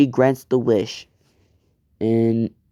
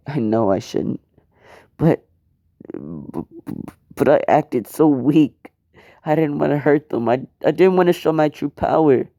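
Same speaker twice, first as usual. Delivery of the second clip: upset confession; 3 semitones higher than usual. Acted.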